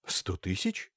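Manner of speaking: astonished question rising on тысяч; startled, disbelieving repeat; surprised. Acted. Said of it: "изумился Кислицын".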